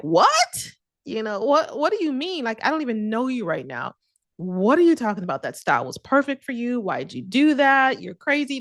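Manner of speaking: a friend's squeaky, amazed reaction; shocked friend. Retold or imitated. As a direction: act out her shock at the news. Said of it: "she was, like, shocked".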